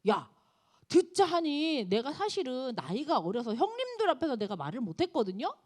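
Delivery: loud, rising indignant rebuke from a younger man; angry scolding. Retold or imitated. Young Elihu scolding Job, loud angry outburst. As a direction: blow up at an older friend in protest. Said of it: "욥에게 막 화를 내요".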